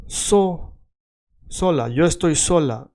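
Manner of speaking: Russian accent, solo becomes sola; Russian-accented Spanish. Shown as a demonstration. Teacher imitating a Russian learner, Russian-accented sola. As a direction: stress "so", let the final o become a, Russian-style. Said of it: "a Russian would say".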